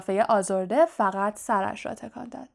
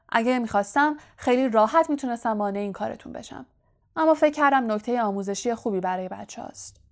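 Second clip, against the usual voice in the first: Lockhart; 2 semitones higher, faster than usual. Acted.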